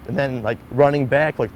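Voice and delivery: normal talking voice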